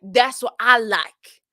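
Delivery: slow, drawn-out sassy imitation; mock passive-aggressive. Streamer finishing contestant's imagined answer, slow mock passive-aggressive. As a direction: land the dig slowly, hammed-up. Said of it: "That was her being passive aggressive".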